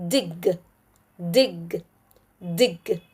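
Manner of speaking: "dig" with a short "ih". Shown as a demonstration. Teacher blends a C V C word, short I. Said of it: "the short I sound".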